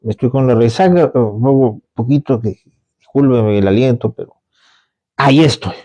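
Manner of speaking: low, casual confession to the priest; a hint of a hungover sinner pleading; lightly voiced penitent.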